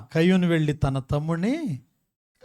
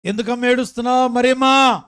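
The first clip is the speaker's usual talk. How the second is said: louder, higher acted plea to a caller; raised-voice questioning; 5 semitones higher, 6 dB louder than usual. Pastor asking a crying woman on the phone, raised-voice questioning. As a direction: press her loudly for an answer.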